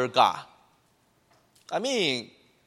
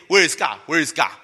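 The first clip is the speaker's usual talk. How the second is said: mock complaint; 5 dB louder, faster than usual. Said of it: "but you still say".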